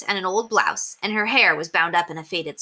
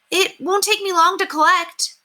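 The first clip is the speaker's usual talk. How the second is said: put-on bright, much higher and louder boy's voice; Henry cheerfully promising a quick job; 13 semitones higher, 5 dB louder than usual. A narrator's reading. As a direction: sound eager and sure of yourself. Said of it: "said Henry cheerfully".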